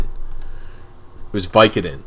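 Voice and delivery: slow, dreamy repeat of the word "Vicodin"; slow drawn-out repeat. Real, not acted. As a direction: stretch every word out, very slow.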